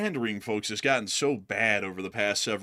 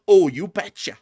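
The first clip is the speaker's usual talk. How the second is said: put-on loud, higher folksy Midwestern accent; mock Nebraska accent; 6 semitones higher, 9 dB louder than usual. Host imagining himself campaigning in Nebraska, mock Midwestern accent. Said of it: "I go campaign in Nebraska".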